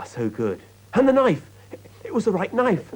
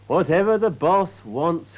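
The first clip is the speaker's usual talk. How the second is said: slow, weary resigned groan; 5 semitones higher, 4 dB louder, slower than usual. A narrator's reading. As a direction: sigh it out, worn down by the boss. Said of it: "groaned Peter".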